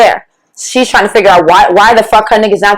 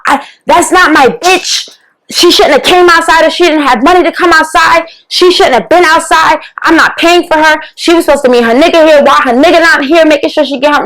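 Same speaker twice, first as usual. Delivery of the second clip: higher-pitched imitated rant, pushed hard; mock going off; 5 semitones higher than usual. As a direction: mimic him ranting and getting worked up. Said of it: "Like, just going off".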